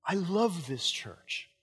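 slow, hushed voice of God; lightly voiced, slow divine whisper-like line. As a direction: speak it slowly as God speaking to the heart. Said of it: "he says".

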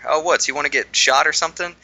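light mock Southern accent, pitched a bit up; coworkers' joke in a Southern accent. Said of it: "I did a Southern accent there".

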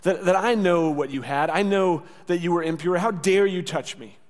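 mock indignant rebuke; laying into her. Imagined Jesus rebuking the unclean woman, indignant. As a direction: scold with punched, accusing words. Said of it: "he's gonna lay into her".

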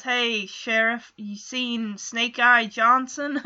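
slow Western cowboy twang. Retold or imitated. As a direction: drawl it like an Old West cowboy. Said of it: "in a cowboy voice, twang".

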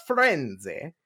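"Firenze" said the Italian way; "Firenze" with an Italian eh ending; Italian pronunciation. Retold or imitated. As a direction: say "Firenze" as fee-REN-tseh, Italian style. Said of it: "Ezio is always talking about".

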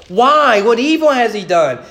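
a touch of Pilate's anguished cry. Retold or imitated. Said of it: "he cries out".

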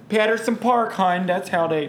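Baltimore accent. Shown as a demonstration. Showing how locals talk, in broad Baltimore accent. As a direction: imitate John Waters movie Baltimore accent. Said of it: "that's how they talk down here".

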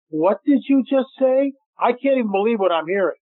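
retold gasp of disbelief, pitched high and slowed; stunned disbelief. Filmmaker retelling hearing the inscription, mock stunned. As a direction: replay the moment the words sank in.

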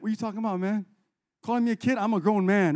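mildly irritated grown man; frustrated. Acted. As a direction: push back at being called a kid. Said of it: "was already frustrated about".

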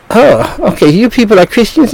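lightly hammed-up imitation of a passerby; mocking imitation. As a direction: lift the voice up high to mimic the man. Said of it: "a little homosexual twisting and turning kind of a way".

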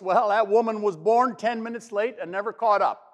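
a hint of a reedy old man; lightly voiced reedy, opinionated accountant; reedy high voice. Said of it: "said in his reedy high voice".

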